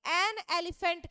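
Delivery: slowly spelled out for the class; slow teaching model. Shown as a demonstration. Teacher slowly modeling an article for pupils. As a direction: say it slowly so students can copy. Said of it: "तो हम क्या करेंगे?".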